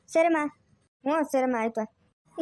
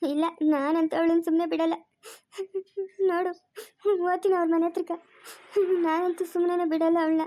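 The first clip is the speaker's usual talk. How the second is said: crying, stubbornly threatening; tearful vow. Acted. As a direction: sob between phrases as you vow to confront her. Weeping mother vows to confront the girl. (ಅಳುತ್ತಾ ಹಠದಿಂದ)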